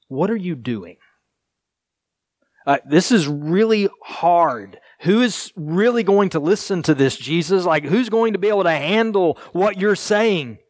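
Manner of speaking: high, pleading disciples' protest; disciples complaining. Retold or imitated. Preacher voicing the disciples questioning Jesus, high and pleading. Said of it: "they basically say".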